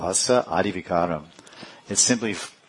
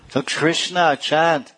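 raised, higher-pitched appeal; urgent calling out; 6 semitones higher, 4 dB louder, slower than usual. Acted. Gauranga telling the trees to chant Krishna, calling out. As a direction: call out the command to chant.

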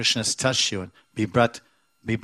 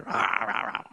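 tiger roar; 4 dB quieter than usual. Retold or imitated. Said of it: "So he's like a tiger".

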